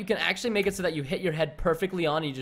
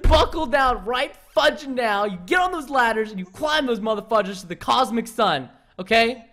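forceful coach-like command; stern pep talk. Real, not acted. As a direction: drill it into your friend. Pep talk to failing friend.

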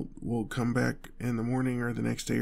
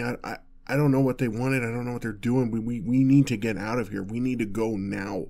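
louder, stammering alarm; frantic urgency; 6 dB louder than usual. Acted. Telling honey they were followed and must go, frantic urgency. Fleeing shooters, pleading to leave.

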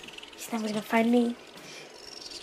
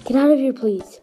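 yelling across the room; 2 semitones higher, 3 dB louder than usual. Real, not acted. Yelling at sibling to leave.

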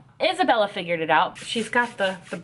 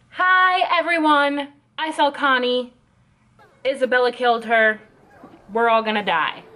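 mock blurting Emma. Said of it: "might as well just scream it out".

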